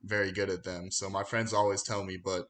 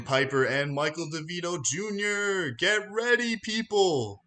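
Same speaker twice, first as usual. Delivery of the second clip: big ring-announcer intro, names stretched and rising to a climax; 7 semitones higher than usual. Acted. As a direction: build it like a fight-night announcer, drawing out the last words. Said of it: "if Michael or Bruce Buffer n-, need to retire".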